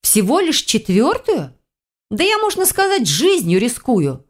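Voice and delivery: slow, high, offended pleading; huffy bargaining heroine; indignant protest. Acted. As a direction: drag it out like she's been cheated. Heroine protests her small share.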